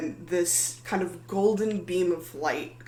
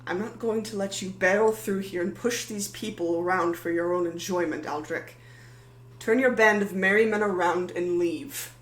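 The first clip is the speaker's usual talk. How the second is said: defiant, building to a louder order on the last line; 2 semitones higher, 3 dB louder than usual. Acted. Maddie defies the giant paladin, building anger. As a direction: stand your ground and order him out.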